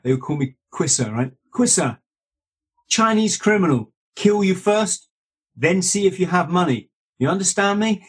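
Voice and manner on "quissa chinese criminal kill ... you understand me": high, imitated Hong Kong Chinese accent. Manager warning about criminals, high Hong Kong Chinese accent. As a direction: warn in a mimicked Hong Kong manager's English. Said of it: "Sorry, I'm doing the accent".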